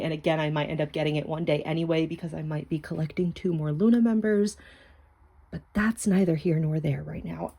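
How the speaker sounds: soft close whisper near the mic; whispering in your ear. Real, not acted. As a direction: murmur right into the ear. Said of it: "sorry I'm whispering in your ear".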